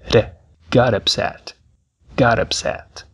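got dito "gar", T como R batido. Shown as a demonstration. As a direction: une got e upset com um R leve. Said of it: "perceba que o som da letra T é R". (o T de got soa como R)

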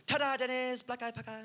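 high, bright showman reveal; proud pitch. Retold or imitated. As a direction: present it like a grand unveiling. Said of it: "And I was like".

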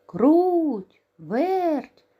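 high, loud rooster call. Acted. Rooster calls the mice to show his find, loud high call. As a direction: call the mice from across the yard. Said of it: "став гукати півник".

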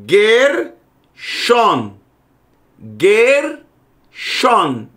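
"Gershon" slow in two parts, open final n; final N left open. Shown as a demonstration. Teacher modelling a Hebrew name, final n left open. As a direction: say "Gershon" syllable by syllable, mouth open at the end. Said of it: "você não lê com a boca fechada".

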